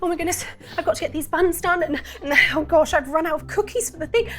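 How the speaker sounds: high, fast, flustered baker voice; frazzled shopkeeper fussing over her baking. Acted. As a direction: bustle through it, all in a tizzy.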